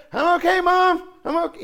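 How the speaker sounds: put-on high, loud, eager kid voice; little boy reassuring. Young son answering his mother happily, eager high voice. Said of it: "And he said".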